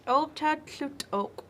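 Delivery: high, loud, drawn-out happy cry; light up at the news; chipmunk's delight. Acted. Chipmunk hears grandma wants her, overjoyed and high. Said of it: "And so Chipmunk's like".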